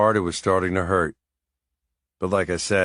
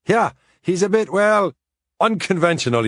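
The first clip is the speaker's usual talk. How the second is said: higher Irish priest, hesitant; old priest voice; 10 semitones higher, 4 dB louder than usual. A narrator's reading. Seamus hinting to Mick about the nanny, higher. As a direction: pick the word carefully, a priest being delicate.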